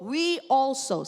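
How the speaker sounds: "We" stretched slowly, falling; slow emphasis. Shown as a demonstration. Pastor modelling the line for the congregation, slow. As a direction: lead the phrase slowly, stressing "We". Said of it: "Sabihin natin lahat".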